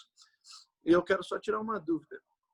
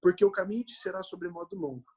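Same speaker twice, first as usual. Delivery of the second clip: raised, solemn Bible reading voice; scripture reading; 4 semitones higher than usual. Acted. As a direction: read the passage aloud to the congregation. Reads Bible passage aloud.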